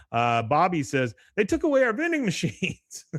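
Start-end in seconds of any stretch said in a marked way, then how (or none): 1.4-3.0 high-pitched mock kid voice; imitated schoolboy complaint. Bobby answering the class advisor, imitated high complaint. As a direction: pitch it high as a pretend boy's grievance.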